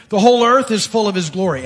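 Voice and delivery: answering call, firm and strong; loud response. Acted. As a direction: proclaim it back to the other angel. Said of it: "not like they're doing it quietly".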